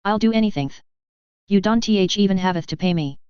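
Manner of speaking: "haveth" with a th lisp; tongue-damaged lisp, th creeping into "haveth"; lisping plea. A narrator's reading. Tearful Jaraz begging Gavin for work, lisping "haveth". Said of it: "Jaraz lisped".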